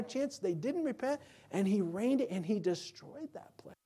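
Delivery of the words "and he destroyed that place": whisper. Real, not acted. Solemn climax of account.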